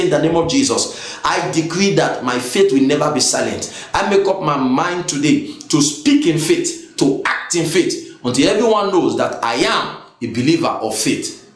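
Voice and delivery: low, measured declaration of faith; prayer declaration. Real, not acted. Preacher leading the congregation in a closing declaration, low and deliberate.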